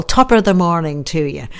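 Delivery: lightly put-on Irish brogue; bad Irish accent. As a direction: greet them in a badly faked Irish accent. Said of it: "That is the worst Irish accent".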